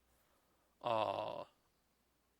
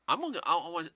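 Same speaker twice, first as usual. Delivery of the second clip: warning; 2 semitones higher, 5 dB louder than usual. Real, not acted. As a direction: sternly warn him not to yawn. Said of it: "I'm gonna throw something at you if you start yawning".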